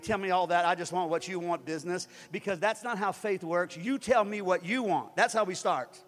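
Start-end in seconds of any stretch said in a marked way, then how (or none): 0.0-2.1 lightly voiced God, lower-pitched; a hint of a stern God setting someone straight; God rebuking. God correcting the praying pastor, mildly stern rebuke. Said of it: "And God said".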